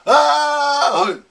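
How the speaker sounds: loud high roaring dragon chant. Pretend. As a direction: belt it out like a dragon. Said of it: "I just used my dragon voice".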